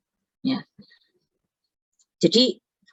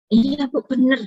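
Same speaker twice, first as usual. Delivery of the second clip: higher-pitched mimicked student answering the lecturer; imitated student reply; 8 semitones higher, 4 dB louder than usual. Student insists to lecturer it is right, imitated reply. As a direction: answer up high as the student, lightly acted.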